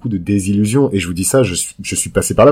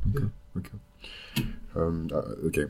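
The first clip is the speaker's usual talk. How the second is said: trailing off; 3 semitones lower, 14 dB quieter than usual. Real, not acted. Aside to someone in room.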